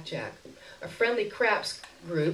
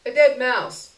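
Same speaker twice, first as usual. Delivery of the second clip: sheepish answer; 6 semitones higher, 8 dB louder than usual. A narrator's reading. Narrator answers the beggar.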